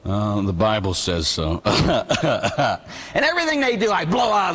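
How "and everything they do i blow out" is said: talking through a laugh, slow. Real, not acted. Priest laughing about blowing away answers. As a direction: let a chuckle run through it.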